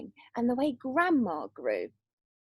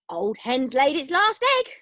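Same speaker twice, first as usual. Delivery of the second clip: shout; 5 dB louder than usual. Acted. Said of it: "Grandma shouted".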